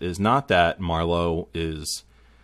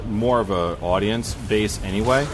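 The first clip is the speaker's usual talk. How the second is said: breaking up. Real, not acted. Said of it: "You're breaking up there".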